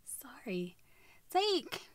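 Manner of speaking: unvoiced, hushed apology; real whispered aside; whispered sorry. Real, not acted. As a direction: duck out of the take with a whisper. Whispered apology after flubbed intro.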